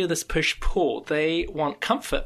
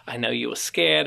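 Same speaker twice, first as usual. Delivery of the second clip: a father reassuring his son that "I know you were scared" in a gentle, calm voice; gentle reassurance. Shown as a demonstration. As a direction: comfort the child instead of scolding. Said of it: "I'd like to think I'd say something more like".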